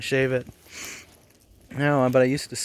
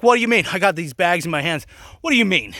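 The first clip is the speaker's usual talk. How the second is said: indignant protest; 3 semitones higher, 4 dB louder, faster than usual. Retold or imitated. Arguing with supervisor.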